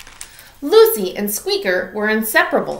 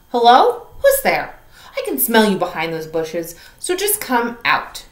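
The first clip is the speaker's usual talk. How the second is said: Lucy calling out. Acted. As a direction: call out to the bushes, curious. Lucy calls to watcher.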